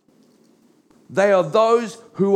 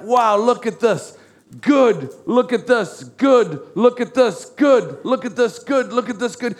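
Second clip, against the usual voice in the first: delighted God; 3 semitones higher than usual. Acted. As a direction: voice God pleased with each thing he made. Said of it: "he's like".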